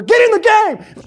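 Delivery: slow, high, full-throated yell; coach's shouted command, drawn out; barking coach. Acted. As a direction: bellow it at a slacking player. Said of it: "come start barking in your ear".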